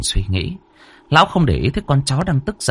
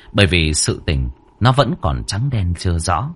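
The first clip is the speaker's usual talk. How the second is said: usual speaking voice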